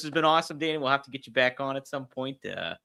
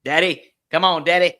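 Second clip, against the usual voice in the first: tag-along Fonzie impression; 4 semitones higher, 8 dB louder than usual. Echoes the Fonzie catchphrase impression.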